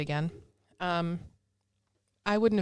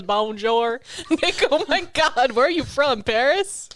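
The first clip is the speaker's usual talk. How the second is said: hammed-up French greeting; 6 semitones higher, 8 dB louder, slower than usual. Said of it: "she goes".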